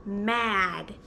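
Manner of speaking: low pretend-cross hmm and word; playing mad for children; acted mad. Shown as a demonstration. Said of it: "That's a mad face".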